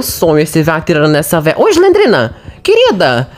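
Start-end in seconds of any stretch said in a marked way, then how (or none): 1.6-3.3 high teasing sing-song; mock sweet call. Real, not acted. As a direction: call her out sweetly and sarcastically. Teasing calls out to Slendrina.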